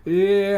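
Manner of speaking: loud mock-sobbing "eh"; imitated trembling whimper. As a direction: imitate a frightened woman's wordless wail. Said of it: "her voice is trembling".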